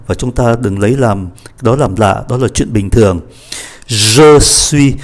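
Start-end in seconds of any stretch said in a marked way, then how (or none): 3.9-4.9 "Je suis" with teeth closed and lips parted on the j; hushing j. Shown as a demonstration. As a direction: let the J of "Je suis" buzz between the teeth. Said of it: "siết lại mà cái môi mở ra". ("Je suis" đọc âm gió, siết răng)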